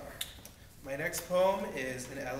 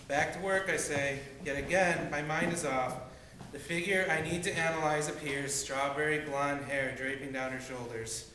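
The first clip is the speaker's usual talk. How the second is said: rhythmic reading of a repeating poem; poem recitation. Acted. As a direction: punch the openings, let each line fall.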